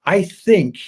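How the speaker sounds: "think" stressed, high and loud; emphatic hedge. Real, not acted. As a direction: underline the word "think" with your voice. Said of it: "I underline the word think".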